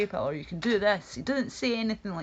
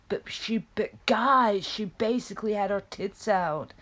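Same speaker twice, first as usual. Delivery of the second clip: whisper; 3 semitones higher, 5 dB louder than usual. Real, not acted. Conspiratorial whisper.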